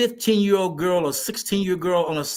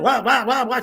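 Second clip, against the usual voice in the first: mock nagging wah; 4 semitones higher than usual. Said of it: "Just screaming and hollering".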